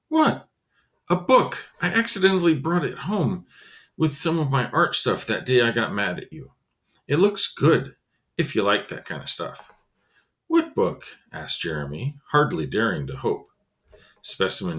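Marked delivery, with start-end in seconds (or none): 0.1-0.5 surprised. Acted. Jeremy surprised. 1.1-9.7 put-on kid voice. Specimen voiced higher. 10.5-11.0 surprised. Acted. Jeremy eager question.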